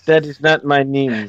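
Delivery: put-on Wakandan accent, played for laughs; mock Wakandan accent. Co-host rejects her introduction, mock Wakandan accent. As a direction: correct them in a pretend Wakandan accent. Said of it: "What is your Wakandan name?".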